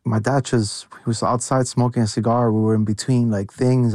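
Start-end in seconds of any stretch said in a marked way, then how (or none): none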